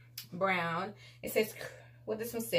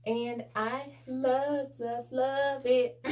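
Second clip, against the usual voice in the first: laughing gush; 3 semitones higher, much slower than usual. Real, not acted. Gushing over item.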